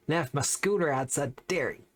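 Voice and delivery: badly faked Bogan accent. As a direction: have a half-hearted go at a Bogan accent. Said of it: "I can't do the Bogan accent".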